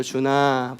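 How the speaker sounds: a gentle, tender call of a name; loving call. Shown as a demonstration. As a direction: call him the way a loving mother would. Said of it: "사랑하는 목소리 부를 땐".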